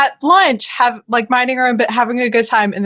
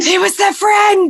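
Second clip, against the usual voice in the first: mock shout; 9 semitones higher than usual. Co-host echoing Harry's outburst, mock shout. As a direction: belt the famous line back. Quoting the famous movie line.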